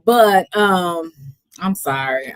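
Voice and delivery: tipsy rambling, giggling. Real, not acted. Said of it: "I'm just a little tipsy".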